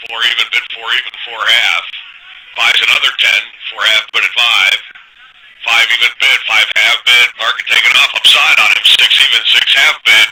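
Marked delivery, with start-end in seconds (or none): 5.6-10.3 urgent pit price calling; frantic trading floor shouting. Real, not acted. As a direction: call the bids fast and urgent. Pit broker calling a rallying market.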